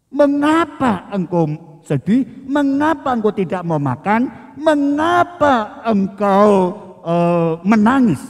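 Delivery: gentle, even questions without reproach; a tender husband consoling his wife; comforting. Shown as a demonstration. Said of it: "Seharusnya Elkana mengatakan".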